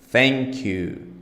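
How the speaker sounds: "Thank" with the tongue pushed out hard between the teeth; over-stress the th in "Thank you"; exaggerated th practice. Shown as a demonstration. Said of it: "You know, exaggerate".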